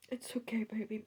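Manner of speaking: soft whispered comfort; whispering. Real, not acted. Soothing herself in front of her dog, whispering. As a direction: hush it gently.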